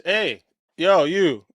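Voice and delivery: a hint of a guy calling someone over; Glenn's casual call-over. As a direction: toss it off like a friendly, offhand summons. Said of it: "that's the way he said it".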